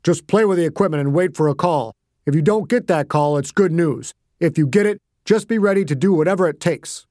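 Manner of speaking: puffed-up deep boss voice; Murray Longworth. Acted. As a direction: chest out, deep commanding tone. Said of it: "spoke in a deep voice".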